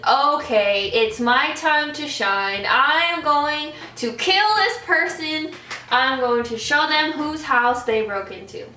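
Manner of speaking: a playful imitation of a little kid's battle resolve; mock heroic resolve. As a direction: talk yourself into being the hero, half joking. Child psyching herself up for intruder.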